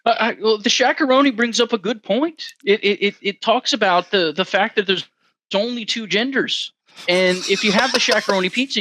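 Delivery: a hint of a preachy professor; Jordan Peterson impression. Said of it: "Mister Jordan Peterson?".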